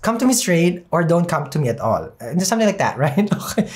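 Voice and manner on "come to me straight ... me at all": quick, run-together phrase with no pauses; said fast. Shown as a demonstration. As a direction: rush straight through COME TO ME. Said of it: "should just say it fast".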